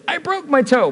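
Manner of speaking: high-pitched imitation of a stubbed-toe cry; mock a yelp over a stubbed toe; mock pained cry. Wife who just hit her toe, in a mock pained cry. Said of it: "she hits her toe and says".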